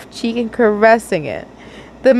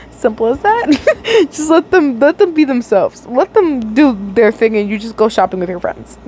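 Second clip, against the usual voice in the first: laughing. Real, not acted. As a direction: laugh through the advice. Laughing advice to characters.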